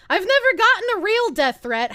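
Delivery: ordinary delivery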